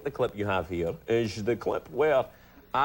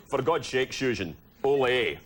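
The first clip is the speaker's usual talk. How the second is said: Connery as a Spaniard; 3 semitones lower than usual. Retold or imitated. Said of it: "as the Spanish guy".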